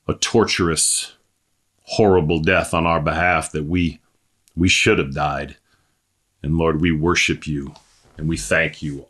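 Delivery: pastor praying before the sermon, reverent and low; prayer. Acted. Pastor prays over the congregation, hushed and reverent.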